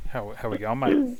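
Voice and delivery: a weak attempt at an Aussie accent; half-hearted Australian twang; mock Aussie greeting. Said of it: "trying to put on an Aussie accent".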